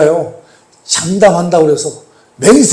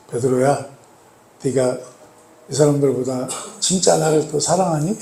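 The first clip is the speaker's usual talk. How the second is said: soft, tender question with pauses; gentle questioning; 4 semitones lower, 8 dB quieter than usual. Acted. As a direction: ask quietly, as Jesus to a fallen disciple. Voicing Jesus gently questioning Peter. (나직하고 다정하게 묻듯)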